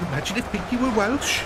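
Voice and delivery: high voice. Acted. Streamer voicing a mock quip.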